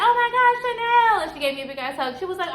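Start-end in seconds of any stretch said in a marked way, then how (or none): 0.1-1.1 high, loud mock squeal of greeting; excited greeting. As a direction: imitate a friend thrilled to see you. Retelling friend's excited greeting.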